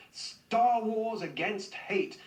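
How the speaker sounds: slow, drawn-out mock-heroic quote; slow, sarcastic show of power; mock powerful. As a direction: imitate a grandly powerful declaration, slowly. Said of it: "he tweeted powerfully".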